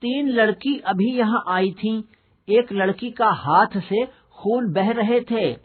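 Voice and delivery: voiced young boy, high and urgent, slowing down at the end; a boy blurting out what he saw; a boy reporting. Rahul tells his teacher what he saw, in a high boyish voice.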